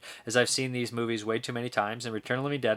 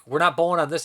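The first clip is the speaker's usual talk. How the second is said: higher, louder quoted movie line; movie character imitation; 5 semitones higher, 5 dB louder, faster than usual. Retelling a Big Lebowski scene, imitated protest. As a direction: protest loudly, as the character does. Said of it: "and he's like".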